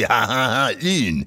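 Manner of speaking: hammed-up French "lune" with rounded French u; playful mock French accent, "ha, ha, ha, lune"; mock French accent, lightly done; silly French accent. Shown as a demonstration. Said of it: "imitate that person in a silly accent".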